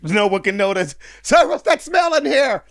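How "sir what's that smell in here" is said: mock sailor shout. Voicing a sailor in the joke.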